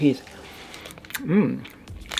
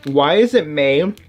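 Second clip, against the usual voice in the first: laughing; 2 semitones higher, much slower than usual. Real, not acted. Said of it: "I think that's just hilarious".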